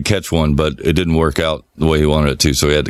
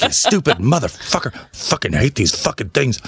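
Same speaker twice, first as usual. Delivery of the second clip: hammed-up grumbling curse; imitating uncle's cussing; 7 semitones higher than usual. Retelling the uncle hitting a catfish, mock cussing. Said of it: "It's like".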